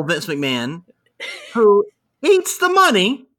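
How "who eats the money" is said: high, loud, laughing delivery; giggling through the punchline; laughing while telling. Real, not acted. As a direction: tell it cracking up.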